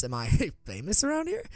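a question broken by a small laugh; amused and a little flattered; light chuckle mid-line; chuckling. A narrator's reading. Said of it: "he asks with a chuckle".

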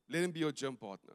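low, soft, measured reply; understated calm command; calm divine instruction. Retold or imitated. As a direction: answer quietly, as God would. Voices the Lord's calm answer.

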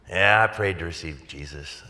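mildly reluctant retold dad, sinking from the first word; unconvinced admission. Dad answering son's excited question, mildly unconvinced admission. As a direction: admit it without much conviction. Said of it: "Why do you say it like that?".

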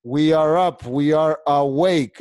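pep up a sleepy class; rousing call. Real, not acted. Teacher rousing students in an online class.

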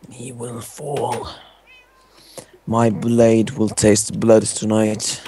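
sneering panto villain. Acted. Mock villain threat to the cat.

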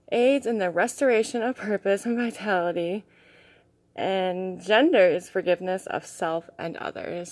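reading while out of breath; breathless, pushing through the reading. Real, not acted. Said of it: "I'm just a little out of breath".

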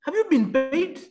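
animated high-pitched impression of a boss; imitated managing director. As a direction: hail the engineer in a high, busy boss voice. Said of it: "It was the M D".

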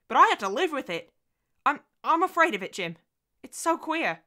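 high, loud, exasperated tirade; overwrought outburst. Acted. Wife worn down by Harry rounds on husband, overwrought. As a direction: pour out pent-up dread and resentment.

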